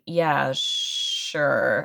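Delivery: drawn-out, half-hearted agreement; mock reluctant yes, dragged out. Man cornered into a dinner invitation, reluctant. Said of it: "he doesn't wanna go".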